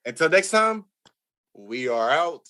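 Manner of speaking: announcer-style sign-off; slow host outro, like closing the show; podcast outro. Acted.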